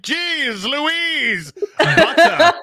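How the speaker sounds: high, hammed-up theatrical lilt; lovey thespian voice. Reading a viewer's message for the stream in his lovey thespian voice. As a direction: camp it up like a stage thespian. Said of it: "read this one in your voice".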